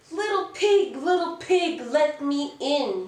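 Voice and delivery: high, loud wolf voice calling at the door; big bad wolf, high and loud, asking to come in. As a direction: call in sweetly to be let in. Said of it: "he cried".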